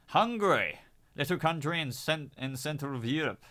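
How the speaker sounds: lightly put-on French accent. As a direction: slip into a mock French accent. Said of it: "Why am I doing a French accent?".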